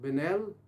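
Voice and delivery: "बेनेल" said as beh-nel, French style; French pronunciation. Shown as a demonstration. Teacher contrasts the French way of saying "बेनेल". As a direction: give "बेनेल" the French sound. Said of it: "French में इसको कहते हैं".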